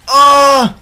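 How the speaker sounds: sharp high startled cry; startled yell. Real, not acted. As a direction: yelp as the plane is hit. Plane hit, yelps.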